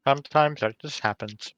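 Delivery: talking while chewing gum; words around a wad of gum. Real, not acted. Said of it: "You sound like you're eating".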